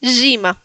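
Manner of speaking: Gima with smiled zhee; said smiling. Shown as a demonstration. Teacher insisting on smiling, spread zh vowel. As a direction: smile while saying Gima. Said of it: "igual hay que sonreír".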